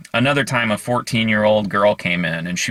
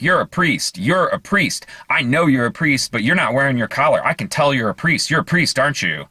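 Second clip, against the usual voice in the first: pushy and higher, pressing the stranger; insistent accusing; 4 semitones higher than usual. Retold or imitated. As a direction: corner him with it, sure of yourself. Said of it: "gets right in his face and says".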